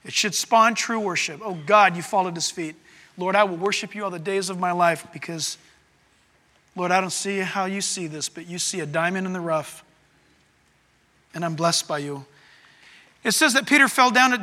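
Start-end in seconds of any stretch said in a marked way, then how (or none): 1.4-12.2 humble prayer. Acted. Worshipper prays at God's feet.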